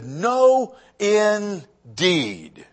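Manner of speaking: NO high and drawn out, INDEED set apart and falling; a measured, emphatic "No, indeed"; emphatic refusal. Retold or imitated. Preacher quoting Elizabeth's answer to the congregation, emphatic. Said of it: "what she says is emphatic".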